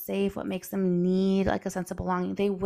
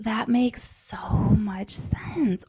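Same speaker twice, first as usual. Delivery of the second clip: soothing whisper; 2 semitones higher, much slower than usual. Retold or imitated. Mom soothing her hurt son, in a slow tender whisper. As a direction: whisper it gently to calm a child.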